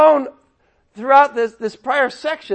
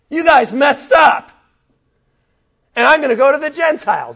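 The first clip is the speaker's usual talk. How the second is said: Paul, worked up; 5 dB louder than usual. Acted. Preacher as Paul telling off his people, emotional and building. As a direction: start earnest, end fed up and forceful. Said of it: "if I'm a little bit emotional".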